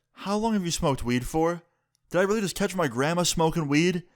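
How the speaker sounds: incredulous grandson questioning grandma. Retold or imitated. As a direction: retell it as stunned disbelief. Shocked at grandma smoking weed.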